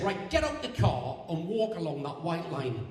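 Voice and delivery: slow stern copper voice; lightly voiced officious policeman. Policeman orders granddad out.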